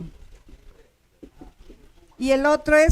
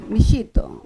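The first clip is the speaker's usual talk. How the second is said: "mijito" with the force on JI; stress on middle syllable; 2 semitones lower than usual. Shown as a demonstration. Teacher showing where the prosodic accent falls, stressed "mi-JI-to". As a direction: lean on the second syllable of "mijito". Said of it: "la fuerza en la pronunciación".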